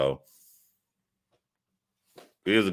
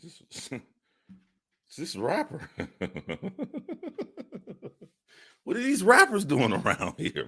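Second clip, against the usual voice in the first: laughing; 11 semitones higher, 3 dB quieter than usual. Real, not acted. Laughing at rapper.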